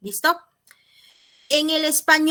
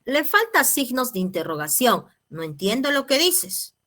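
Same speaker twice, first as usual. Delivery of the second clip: voiced girlfriend reply; 4 semitones higher than usual. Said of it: "la señorita responde".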